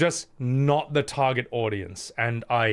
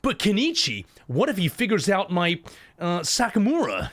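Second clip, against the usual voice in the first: overacted anime dub; 4 semitones higher than usual. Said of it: "It's gonna be like".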